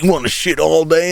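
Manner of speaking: lightly voiced angry mother; mom scolding. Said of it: "She's like".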